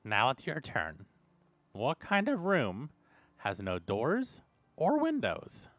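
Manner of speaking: soft, slow riddling voice with pitch swoops; voice in the head. Acted. A game master voices a mysterious riddle in a player's head, soft and slow. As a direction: pose it slowly and softly, lightly put on. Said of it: "it was kinda high pitched".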